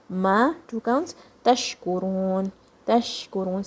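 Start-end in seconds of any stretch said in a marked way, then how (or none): 1.4-3.6 "Tashkurun" with a full, spread sh; spreading sheen. Shown as a demonstration. Teacher drilling the sheen, full hushing sh in "Tashkurun". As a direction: let the sh in "Tashkurun" spread through the mouth. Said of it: "feel the sheen spreading".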